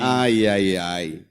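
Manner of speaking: low, drawn-out sigh of "ai"; mock lament. Preacher reacts to Jesus's coming suffering in Jerusalem, lamenting.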